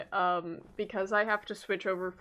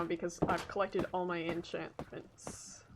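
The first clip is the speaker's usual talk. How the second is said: soft unvoiced whisper; 2 semitones lower, 6 dB quieter than usual. Real, not acted. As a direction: drop suddenly to a whisper after the shouting. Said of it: "I will stop shouting now".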